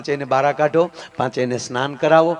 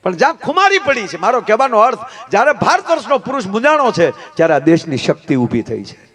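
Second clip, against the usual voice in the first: high, rousing oratory; forceful preaching; 5 semitones higher, 3 dB louder than usual. Real, not acted. Preacher hails the nation's women, high rousing preaching. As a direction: raise the voice to stir the crowd.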